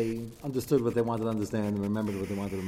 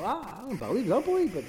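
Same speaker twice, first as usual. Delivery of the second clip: sheepish gentile; 9 semitones higher than usual. Retold or imitated.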